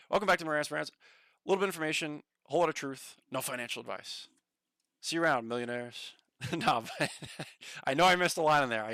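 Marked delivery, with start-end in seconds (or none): 0.1-6.1 lightly voiced show-host sign-on; slightly punchy mock intro; Marantz impression. Streamer finishing Marantz's intro for chat, light impression. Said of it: "Marantz impression".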